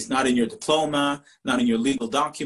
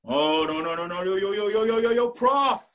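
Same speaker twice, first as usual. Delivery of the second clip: rapid-fire string rising steadily in pitch; one unbroken climbing stream of objection; protesting student; 3 semitones higher than usual. Retold or imitated. Student stopping the prof mid roll call, rising protest. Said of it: "He goes".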